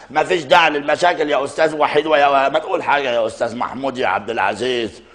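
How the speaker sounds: lightly voiced comic actor answering a phone; a hint of a chatty comedian; Mohamed Negm impression. Impressionist playing a comedian who takes a call on air, lightly voiced. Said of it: "يا أستاذ محمد يا نجم".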